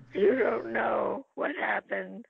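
drawn-out put-on Jewish accent; mock Jewish accent, stretched slowly. Actress ad-libbing to castmates on stage, in a Jewish accent. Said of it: "I spoke in a Jewish accent".

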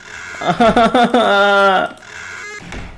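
long stuttering "ah-ha-ha" cry; nervous wail. Real, not acted. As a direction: let out a nervous, broken laugh. Nervous reaction to the game.

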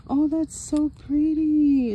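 high, loud delighted gasp of a line; excited gush. Real, not acted. To viewers over a pretty card case, delighted high gush.

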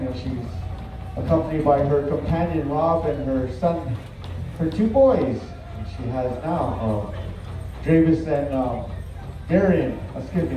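measured arena announcer address; powwow emcee. Real, not acted. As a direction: speak to the whole arena, unhurried. Emcee speaks over the arena PA.

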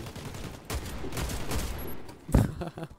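airy unvoiced laugh of disbelief; a helpless, breathy laugh at the game; a real exasperated laugh, all breath; breathless laugh. Real, not acted. Laughs after near death in game.

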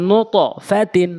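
নুতফাতিন with the t bounced into an o; upward qalqalah. Shown as a demonstration. Teacher reading out the echo rule, upward qalqalah. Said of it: "নুত উপরের দিকে sound".

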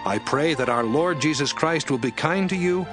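usual speaking voice

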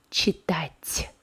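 читать ending in a soft, palatalised T; soft final T. Shown as a demonstration. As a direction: release the ть of читать softly. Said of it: "Do you hear the soft sound?".

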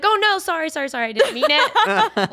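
high, rushed mock panic; flustered, apologizing fast; panicked apology.

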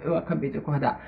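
groggy morning voice, slightly rough; just woke up voice. Real, not acted. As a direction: voice of someone just out of bed. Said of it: "desculpar essa voz de quem acabou de acordar".

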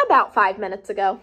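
quick, offhand answer; breezy Piggy. Acted. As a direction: toss it off like it's nothing. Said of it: "Piggy says".

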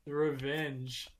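very slow ominous revenge; dramatic slow delivery. Acted. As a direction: drag it out like a villain. Repeated dramatically.

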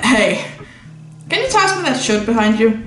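ordinary talk, nothing marked

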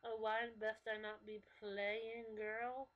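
slow, drawn-out mock comeback; mock-indignant girlfriend reply; exaggerated friend's comeback. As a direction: answer back slowly with hammed-up sass. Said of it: "over-exaggerating how they act".

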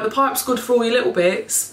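ordinary talk

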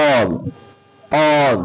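অল said with a rounded অ vowel; short A as অ. Shown as a demonstration. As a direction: model অল slowly and clearly, with A sounding like অ. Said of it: "অর মতো".

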